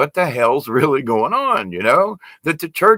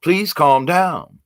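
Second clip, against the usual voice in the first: calm down; 3 semitones higher, slower than usual. Retold or imitated. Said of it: "just say".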